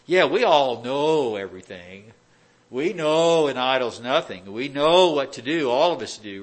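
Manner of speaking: sarcastic preacher mocking his flock; mock know-it-all. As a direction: lay the smugness on thick. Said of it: "that's a sarcastic statement".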